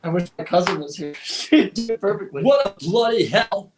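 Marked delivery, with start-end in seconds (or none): 2.4-3.7 bad Australian accent that slips into English; mock Australian, rising at the end; Aussie accent attempt. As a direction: have a go at a playful Aussie accent. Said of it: "in your best Aussie accent".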